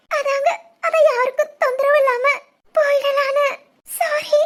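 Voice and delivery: sobbing, begging forgiveness through tears; crying apology. Acted. Bride confessing to her new husband, sobbing. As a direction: weep out the apology, voice cracking. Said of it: "அழாதீங்க".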